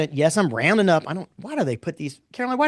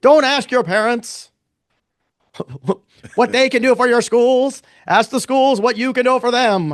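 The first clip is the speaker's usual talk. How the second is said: put-on loud, high, terrible Boston accent; hammed-up Boston orator accent; Kennedy; 6 semitones higher, 7 dB louder than usual. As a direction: declaim it like a speech in a bad Boston accent. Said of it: "it was a terrible Boston accent".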